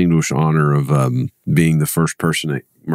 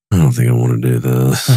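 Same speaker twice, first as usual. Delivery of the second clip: low, weary mock groan of reluctance; retold reluctance; 5 semitones lower than usual. Recalling a call with the city, low and reluctant. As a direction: drag out your unwillingness in a lower voice.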